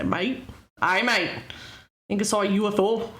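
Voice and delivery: a lightly put-on Canadian accent on mate. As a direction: try for Aussie and slip into Canadian. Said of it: "That's Canadian".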